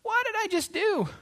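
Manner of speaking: high-pitched, aghast self-questioning; acted dismay. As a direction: wail it at yourself in mock disbelief. Dismayed after hanging up.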